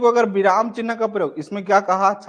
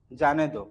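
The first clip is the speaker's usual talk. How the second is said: जाने दो set apart, lower and falling; separate second phrase; 4 semitones lower, 3 dB quieter than usual. Shown as a demonstration. Teacher finishing the life-saving version, जाने दो as a lower separate phrase. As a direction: drop जाने दो down after the break. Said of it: "अब बोल रहा है कि क्या".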